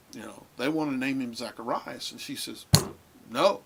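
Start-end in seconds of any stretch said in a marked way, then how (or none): 3.3-3.6 'No' barked out high and loud; a loud, final 'No'; forceful no. Retold or imitated. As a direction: she flatly refuses the name. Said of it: "with that much force".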